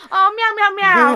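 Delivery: high, cutesy meowing; happy cats. Pretend. Voicing the happy cats for her social media, high cutesy meows. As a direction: play a blissful little cat. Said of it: "it's going to be happy cats".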